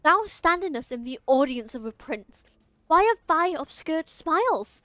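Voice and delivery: lightly voiced haughty prince, slow; a hint of a regal royal tone; archaic prince voice. Streamer voicing the vampire prince to the game character, lightly haughty.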